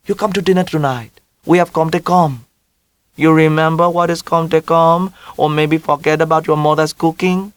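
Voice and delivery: put-on mother in a heavy Vietnamese accent, high. A narrator's reading.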